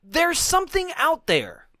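horror trailer voice. Acted. Reading trailer tagline.

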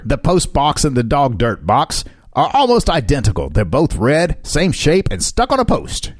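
put-on a loose, makeshift Australian accent. Reading an elderly Englishman's quote aloud to a co-host, mock Australian accent. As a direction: read it in an amateur Australian accent. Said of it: "I'm using my Australian accent".

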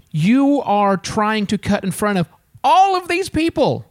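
slow, measured telling-off; pointed explanation. Retold or imitated. Traveler explains to a line cutter, pointedly. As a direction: spell it out slowly, word by word.

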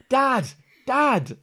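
loud, high repeated call; shouting kid. Acted. Kid trying to rouse his unresponsive dad, shouting high. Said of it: "starts shouting, like".

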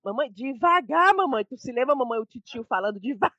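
children imitating uncle. Imitating her children reminding mom about uncle, lightly voiced child. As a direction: mimic small kids teasing their mother. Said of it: "o Ismael e o Calil só falam".

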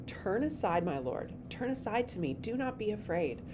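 gently coaxing, softened voice; lightly acted sweet, quiet invitation; soft and sweet. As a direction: read it softly, unassuming and reassuring. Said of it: "very soft and very unassuming and very sweet".

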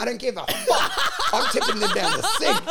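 way up high, laughing through it; giddy squeal of defiance; gleeful outburst. Retold or imitated. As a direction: crow it like you don't care at all. Retelling his own careless outburst.

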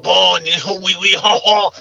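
lightly put-on French noises; mock French. Skeptic imitating French speakers, a light mock French. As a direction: toss off hammy French oui-ouis. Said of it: "that shit sexy in the French".

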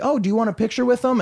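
high, bright mock of dad inviting the fans; imitating his dad's eager offer. Dad offering fans a photo, high eager imitation. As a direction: lift way up like a cheerful dad.

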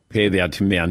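low-pitched mock Russian accent; Teddy KGB's bad accent. Host mimics the movie line for his crew, bad Russian accent. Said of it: "it's just not a good accent".

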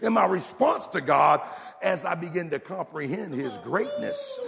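impassioned, rolling pulpit proclamation; full-force preaching. Real, not acted. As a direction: preach it hard, building point on point.

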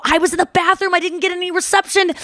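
high-pitched retold excuse; excited explanation. Girlfriend explaining her delay to the girls, excited.

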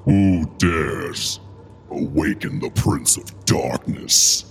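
slow, dark demonic lord voice; ancient rasping undead king. Acted. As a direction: boom it out like the Prince of Darkness. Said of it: "I'm just kidding".

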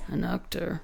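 slow, drawn-out actor voice; Johnny Depp. Shown as a demonstration. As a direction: stretch the word out like the star. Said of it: "I'm Johnny Depp and I'm an actor".

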